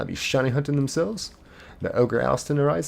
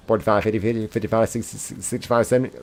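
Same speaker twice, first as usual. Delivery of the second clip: auctioneer. Shown as a demonstration. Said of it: "practicing like an auctioneer".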